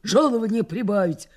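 a mock brazen yell; demanding shout. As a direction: order the mistress about. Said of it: "стала кричать на барыню".

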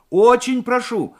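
high, loud, drawn-out begging; urgent plea. A narrator's reading. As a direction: plead hard down the phone. Morev pleads with the operator. (горячая, настойчивая мольба)

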